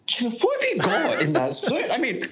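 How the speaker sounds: amused and incredulous, laughing as you ask; laughing question to Jimmy. Retold or imitated. Laughing at Jimmy's pocket tricks.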